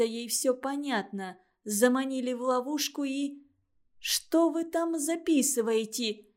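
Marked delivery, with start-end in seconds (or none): 4.0-6.3 put-on girl cries out at the note-taker; piercing shout. A narrator's reading. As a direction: shriek it at him. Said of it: "закричала она пронзительно".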